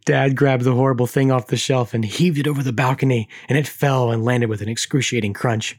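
measured, dramatic reading of a creepy tale; story narration. A narrator's reading. Host reads creepy Furby story aloud, dramatic narration. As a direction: read it like a campfire horror story.

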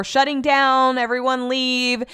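mock call-out, stretched at the end. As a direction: imitate staff calling everyone out. Restaurant employee calling out closure.

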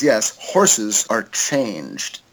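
low, slow, deadpan alien. Retold or imitated. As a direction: drag it out low like an eerie alien. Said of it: "And the alien says".

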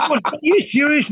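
high-pitched incredulous question; retold disbelief. Passenger to hostile cab driver, retold incredulity. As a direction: act out being taken aback.

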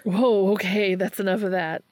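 loud, cutting someone off; forceful interruption. Acted. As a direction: stop them talking, loudly. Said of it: "Dean interrupted forcefully".

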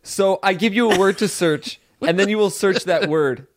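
a deliberately grating game-host voice; annoying Game Boy voice. Pretend. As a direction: explain the rules in an irritating host voice. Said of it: "That voice is, scratching my brain".

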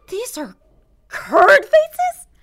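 loud high shocked question; surprised. Acted. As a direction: burst out in disbelief. Shocked discovery of snacks.

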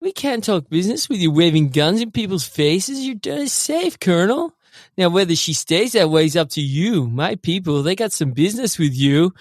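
high, put-on gangster voice; Diaz impression. Quoting the villain Diaz to the guys, pitched high. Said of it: "Diaz goes".

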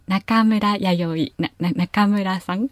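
slow 中村 with no rise on か; flat Kanto intonation. Shown as a demonstration. Kanto people calling her name, flat 中村. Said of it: "かが上がらない言い方で".

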